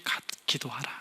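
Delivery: hushed secret whisper; soft whisper of going into the inner room. Acted. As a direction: breathe it like a secret prayer. Quiet prayer instruction, whispered.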